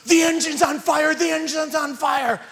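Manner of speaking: high-pitched mock scream of alarm; imitated panicked woman. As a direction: shriek it like a terrified passenger. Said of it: "the woman across the aisle goes".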